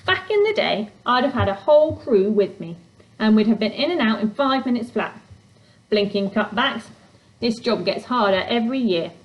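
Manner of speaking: gruff, busy goblin; grumpy goblin voice. Acted. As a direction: brush her off grumpily. Fletch grumbles.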